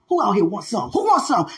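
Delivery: Debo's tough challenge. Retold or imitated. Speaker imitating street fighters, tough challenge. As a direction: call out for a fight, playfully. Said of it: "Many of us like Debo out here".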